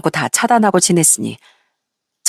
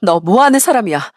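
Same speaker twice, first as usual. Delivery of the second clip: higher-pitched, restrained angry yell; angry outburst; 3 semitones higher than usual. Acted. Ex-wife blaming ex-husband for her ruined life, angry outburst. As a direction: lash out in acted indignation, voice lifting as it goes. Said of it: "화를 내며 소리를 쳤어요".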